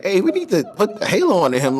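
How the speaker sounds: quoting it through a laugh, pitched high; half-laughing as he quotes the order; amused quote, laugh breaking through. Retold or imitated. Retelling colleague's order, laughing.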